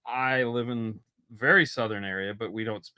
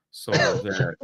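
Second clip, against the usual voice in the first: mock voice. Parroting the Charlotte guys.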